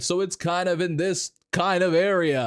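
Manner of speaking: back-of-throat tone lifted a bit. Shown as a demonstration. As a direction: bring the throaty voice up slightly. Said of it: "bring it up a little bit".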